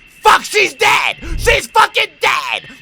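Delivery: loud, high, drawn-out scream; shocked shout. Real, not acted. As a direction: shout it out in alarm, stretching each word. Shocked outburst at a game death.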